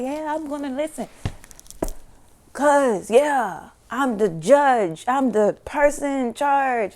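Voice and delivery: smug devil. Retold or imitated. Devil voiced.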